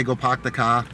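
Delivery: light Boston accent, r's dropped; old Boston accent. Shown as a demonstration. Recalling his lost accent for a viewer, Boston accent. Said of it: "I've lost a lot of my accent".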